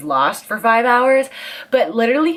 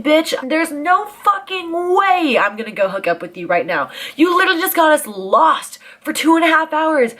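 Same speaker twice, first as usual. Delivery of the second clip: mock furious rant. Retelling how she told off her hotel-room suitor, heated mock rant. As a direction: tear into him like you're reliving it. Telling off the man who got her lost.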